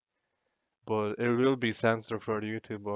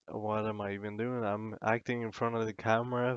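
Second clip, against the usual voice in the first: tipsy, loose speech; 3 dB quieter, faster than usual. Real, not acted. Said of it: "'cause I'm drunk".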